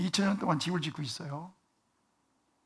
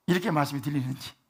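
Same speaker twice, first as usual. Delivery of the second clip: ordinary delivery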